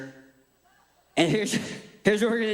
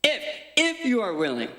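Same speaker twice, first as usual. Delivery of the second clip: "if" said alone, then punched higher; stress on IF; 4 semitones higher than usual. Shown as a demonstration. Preacher shows the crowd the key word, stress on "if". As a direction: hit the word "if" hard. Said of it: "I wanna emphasize the word if".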